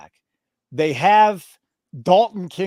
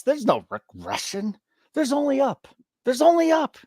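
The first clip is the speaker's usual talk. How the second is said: rising, higher preacher-like proclamation; mock preacher hype; 8 semitones higher than usual. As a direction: proclaim it like gospel, voice climbing. Hyping a winning run.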